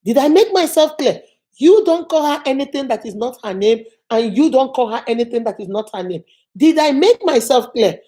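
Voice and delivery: lightly voiced firm boss; mildly stern telling-off, pushed on the closing question; stern director imitated. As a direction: lay down the rule to both sides. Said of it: "My director said".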